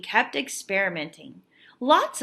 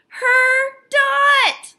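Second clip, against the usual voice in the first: much higher and louder, thrilled; amazed exclaim; 10 dB louder than usual. Acted. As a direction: gasp it out in delight at seeing her own dot. Girl sees her framed dot.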